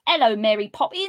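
awful mock-Cockney accent; Dick Van Dyke. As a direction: put on a terrible stagey Cockney. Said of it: "if you think of Dick Van Dyke".

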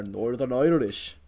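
"Irish" as "oi-rish", lightly Northern Irish; Northern Irish accent. Shown as a demonstration. Co-host quotes the words he knows, Northern Irish accent. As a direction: give "Northern Irish" a Northern Irish sound. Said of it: "say in that accent".

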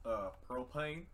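lightly voiced Texan dad; a hint of a drawling propane salesman; Hank Hill line. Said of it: "only thing I know how to say".

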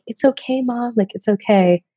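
imitating a little girl soothing her mom; a hint of a tender daughter's voice; comforting daughter. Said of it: "most loving hug and was just like".

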